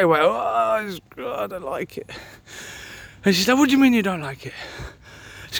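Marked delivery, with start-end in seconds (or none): 0.2-2.1 mock disgust. Retold disgust at food in mouth. 3.6-4.5 mock indignation. Retold wife offended by his dislike.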